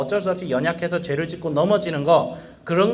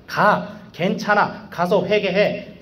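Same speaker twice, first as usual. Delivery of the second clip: higher, slow, gentle urging to go and repent; reassuring God; 5 semitones higher, much slower than usual. Retold or imitated. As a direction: comfort a child who fears coming back. God answering sinner. (다정하게 천천히 달래는 하나님 목소리)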